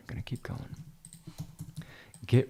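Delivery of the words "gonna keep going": whispered to himself. Real, not acted. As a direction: repeat "Gonna keep going." in a whisper. Repeats it under his breath.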